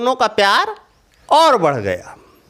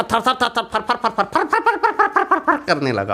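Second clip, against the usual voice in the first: trembling sound; 3 semitones higher, 3 dB quieter than usual. A narrator's reading. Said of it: "एकदम कांपने लगा".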